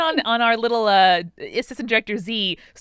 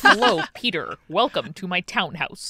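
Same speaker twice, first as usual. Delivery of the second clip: put-on American accent; 2 semitones lower than usual. People taking turns doing a Benedict Cumberbatch American accent. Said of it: "Benedict Cumberbatch American accent".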